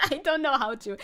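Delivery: loud, laughing admission. Real, not acted. Streamer asks how to stop being mean, laughing. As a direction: break up laughing while confessing. Cracks up at her own meanness.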